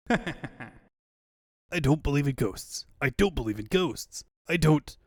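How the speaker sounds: slow laughing taunt; mocking laugh. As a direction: laugh it out slowly, gloating.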